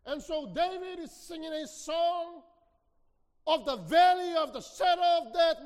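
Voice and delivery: loud, high preaching shout; fiery preaching. Real, not acted. Preacher driving the point home to the congregation, shouting. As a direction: build the congregation to a peak.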